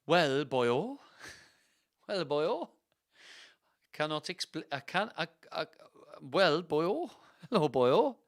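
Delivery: badly faked Welsh, rising lilt; stammering attempt at Welsh; failed Welsh accent. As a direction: stumble through a hopeless Welsh accent. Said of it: "I cannot do a Welsh accent".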